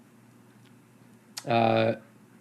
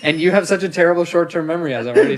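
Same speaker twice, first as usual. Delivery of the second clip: laughing shout; 5 semitones higher, 3 dB louder, faster than usual. Real, not acted. Teasing partner, shouting with laughter.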